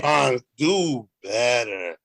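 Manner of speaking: slow, loud show shout; catchphrase shout. Acted. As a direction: bellow the slogan back. Co-host answers catchphrase.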